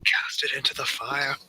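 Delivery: high, slow dramatic cry; epic film plea. Acted. Player echoing the film as horn is grabbed, slow high plea. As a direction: call it out like a fantasy film climax. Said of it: "That's basically what's going on, is cast it".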